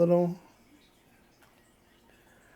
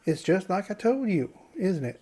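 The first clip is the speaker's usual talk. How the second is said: put-on southern accent. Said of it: "giving him a southern accent".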